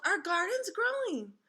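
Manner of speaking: high and drawn out; child repeating her happy news; excited call. A narrator's reading. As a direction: sing it out slowly with delight. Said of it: "I yelled".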